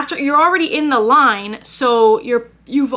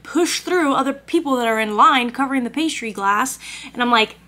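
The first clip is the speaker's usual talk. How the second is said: usual speaking voice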